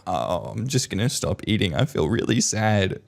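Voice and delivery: soft whiny mock sadness; mock self-pity. Mum guilt-tripping the couple, softly and pitifully. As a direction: sigh it out like a martyr. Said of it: "mum's like".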